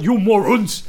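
loud mock Australian insult; Australian accent. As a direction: imitate an Aussie movie star shouting. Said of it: "¿Has oído hablar a Chris Hemsworth".

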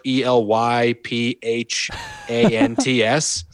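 slow, letter by letter: E L Y P H A N T S; spelled out letter by letter. Shown as a demonstration. Host spelling the Twitter handle for listeners, slow and deliberate. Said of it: "but it's spelled".

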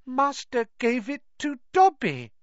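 high squeaky elf, awestruck; house elf in wonderment. Acted. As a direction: marvel at it like a small elf. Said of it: "said the elf in wonderment".

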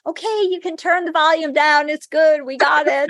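high, amused pleading through a laugh. Retold or imitated. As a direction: laughingly ask the spirits to calm down. Telling loud spirits to quiet.

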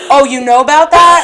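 laughing while quoting the priest; laughing through it. Retold or imitated. Telling a friend about the priest, laughing. Retelling priest's surprised line.

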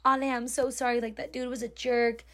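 understated commiserating tone; sympathetic manager. Retold or imitated. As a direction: console gently, as a retold manager. Manager consoling her in retold quote.

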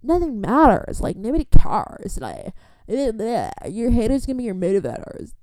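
high airy carefree voice; lightly mock a carefree American. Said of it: "romantic way of living where it's just like".

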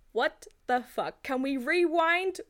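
hammed-up horror with a laugh breaking in; appalled disbelief. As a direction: space the words out, aghast. Acting out her stunned reaction.

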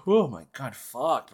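high, loud, breaking off with a sudden exclamation; startled outburst. Real, not acted. Podcaster cut off mid-sentence, startled. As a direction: lose the thread, jolted.

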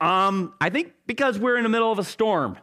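fast, mildly sarcastic answer; sarcastic reply. Acted. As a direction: point out the obvious. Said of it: "I would probably respond back".

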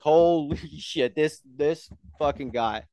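slow, hushed disbelief with a laugh; slow awed mutter at a coworker; stunned disbelief. Retold or imitated. Stunned at the customer.

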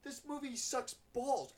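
a touch of a bored, drawn-out complaint; bored date. Retold or imitated. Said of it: "she's like".

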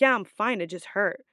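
curt, clipped-off yeah I'm fine; a hint of attitude, stung and short. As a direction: brush her off with a bit of attitude. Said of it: "I had an attitude".

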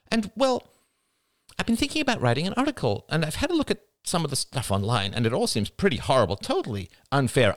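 high, eager, chatty request; sister-in-law on the phone. Acted. Rachel asking for a way into the movement, eager. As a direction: talk your way toward a favour.

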